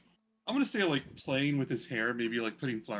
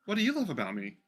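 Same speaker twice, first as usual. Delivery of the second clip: Nessa, doting; 6 semitones higher, faster than usual. Acted. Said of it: "Nessa goes".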